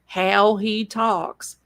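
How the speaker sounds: slow, stretched country accent; Notso's accent. Shown as a demonstration. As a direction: draw out HOW in his country accent. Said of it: "in his accent".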